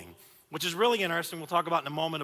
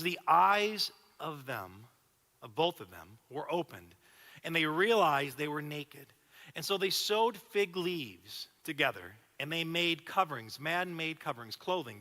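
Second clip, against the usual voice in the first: scripture reading. Acted. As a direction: read it slowly, letting it land. Reads Genesis slowly.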